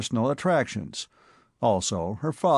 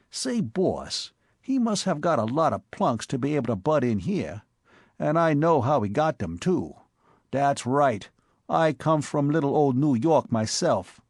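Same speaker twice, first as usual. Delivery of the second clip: put-on Bowery boy Spike; 3 semitones higher than usual. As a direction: play the excitable Bowery tough. Spike gossips about McEachern.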